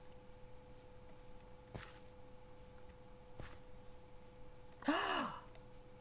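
high, soft gasp. Real, not acted. Player spotting something unknown, gasping. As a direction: gasp in surprise.

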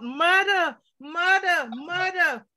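put-on a little girl crying out to be rescued; crying out murder. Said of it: "I cried out".

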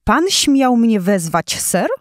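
a proud king of beasts, offended; proud angry lion. Acted. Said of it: "zawołał, posyłając doktorowi piorunujące spojrzenie".

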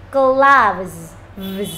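"Gloves" drawn out, ending in a buzzing VZ; final Z added. Shown as a demonstration. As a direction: model "Gloves", then isolate its "Vz" ending. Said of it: "thiếu âm Z".

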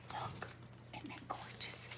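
very soft, near-whispered aside; hushed admiring. Real, not acted. Streamer shows viewers something gorgeous, hushed admiring. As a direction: admire it under your breath.

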